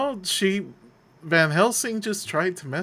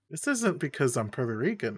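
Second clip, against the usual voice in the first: ordinary talk, nothing marked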